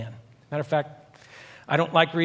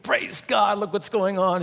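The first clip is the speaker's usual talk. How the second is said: mock-cheerful praise, slightly higher; happy, smiling; 4 semitones higher than usual. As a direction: imitate a blissfully happy leader with a smile. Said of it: "like, smiling and they're happy".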